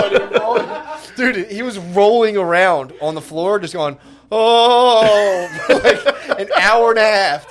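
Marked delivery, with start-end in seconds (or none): 4.3-7.5 high and loud, cracking up; laughing, pitched up. Real, not acted. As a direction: lose it into laughter mid-story. Moan imitation dissolving into laughter.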